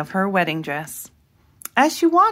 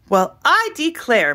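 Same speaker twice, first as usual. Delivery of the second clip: higher, scandalised exclamation; gasped in shock; 7 semitones higher than usual. A narrator's reading. Offended neighbour reacts to hearing her garden called a jungle, high scandalised exclaim. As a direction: clutch your pearls, scandalised. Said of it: "Miss Tussleberry gasped".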